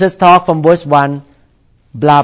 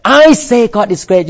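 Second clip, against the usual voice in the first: high, loud preaching repeat; mock Southern preacher proclaiming; 6 semitones higher, 4 dB louder than usual. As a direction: belt it out twice from the pulpit. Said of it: "Like, you know".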